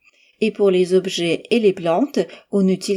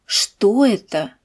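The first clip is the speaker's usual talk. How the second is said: Что raised then falling, slow; stress on Что; slower than usual. Shown as a demonstration. Teacher to students, slow stress on Что. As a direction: voice up on Что, down after. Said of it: "Écoutez et répétez après moi".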